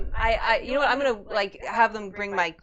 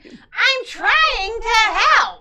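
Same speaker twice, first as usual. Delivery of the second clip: shouting; 11 semitones higher, 8 dB louder, much slower than usual. Acted. Desperate protest in character.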